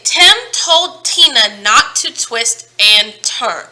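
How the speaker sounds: slowly and carefully, every t crisp; slow tongue twister. Shown as a demonstration. Teacher modelling a tongue twister for the class, slow and deliberate. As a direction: model the twister at half speed. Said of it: "try this. Say".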